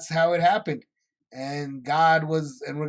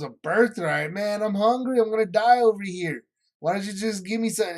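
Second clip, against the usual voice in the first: higher, louder mock grumbling; hungry complaint; 4 semitones higher, 4 dB louder than usual. Hungry Esau brushes off Jacob's demand for his birthright, exasperated complaint. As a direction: protest in a hurry, pitch climbing.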